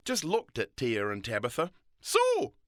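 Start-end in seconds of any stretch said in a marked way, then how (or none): 2.0-2.5 higher, louder Scottish "So"; old Scottish lady. A narrator's reading. Old lady greeting the girls, Scottish accent. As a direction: draw it out in a Scots lilt. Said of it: "said the old Scottish lady".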